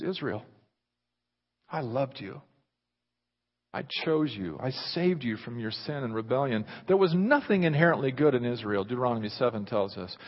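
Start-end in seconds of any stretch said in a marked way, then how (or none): 0.0-6.6 tender voice of God. Acted. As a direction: speak it like a grieving lover. God's tender words to Israel.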